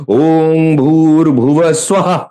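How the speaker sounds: ওং ভূর্ভুবস্সুবঃ slow, ending in a forced breath ha; বিসর্গে নিঃশ্বাস ছেড়ে হা; breathed visarga. Shown as a demonstration. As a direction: let the ha burst out like a cough. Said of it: "যেরকম কাশলে পরে ... সেই রকম".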